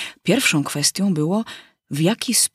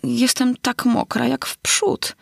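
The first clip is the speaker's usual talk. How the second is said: put-on slow, gently melancholy girl; 6 semitones higher, slower than usual. Alinka answers the mouse, slow and mildly melancholy. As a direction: sigh it out, still soaking wet. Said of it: "rzekła dziewczynka melancholijnym głosem".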